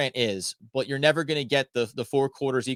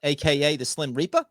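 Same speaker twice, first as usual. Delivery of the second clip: mock Masai Ujiri impression; 3 semitones higher than usual. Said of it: "That's as far as that's gonna go".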